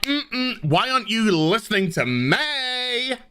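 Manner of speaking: mock whiny protest. Mocking Burnham talking over others.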